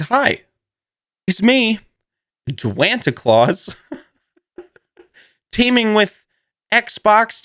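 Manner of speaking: high, slow hammed-up promo voice; mock ad read. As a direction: read it like a cheesy holiday ad. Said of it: "it said".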